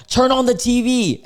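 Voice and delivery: high, urgent acted exclamation; all-caps mock yell. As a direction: imitate a frantic all-caps text. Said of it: "this is in all caps".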